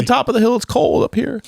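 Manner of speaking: high mock-tragic whine; mock whiny braggart. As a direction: moan it like a lonely star. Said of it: "imagine me like".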